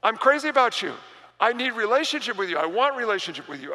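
God insisting he loves his people, fast and fervent; God pleading passionately. Acted. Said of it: "And God's like".

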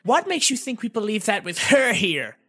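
high, loud fairy voice; high small fairy voice; Navi's voice. Acted. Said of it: "Navi asked".

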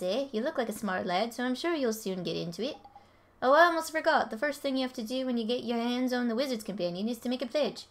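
lightly put-on Welsh-ish accent reading the game text; playful guessed Welsh accent, lively. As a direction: voice the sidekick in a half-guessed Welsh lilt. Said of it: "I don't know what accent this is".

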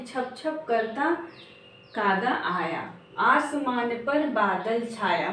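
drawn-out rhyme lines read aloud; slow poem recitation. Shown as a demonstration. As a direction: recite the lines slowly, sing-song. Quotes poem lines slowly. (धीमी कविता पाठ)

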